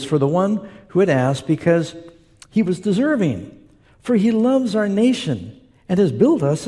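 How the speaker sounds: deliberate reading with stretched key words; scripture reading. Acted. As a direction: read the Bible passage out to a congregation, phrase by phrase. Reads scripture aloud to congregation.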